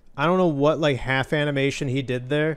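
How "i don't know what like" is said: ordinary delivery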